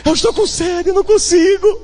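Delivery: put-on high, fading child's plea; exhausted child. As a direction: plead weakly, too tired to walk. Weak child pleading. (criança esmorecendo, voz aguda e fraca)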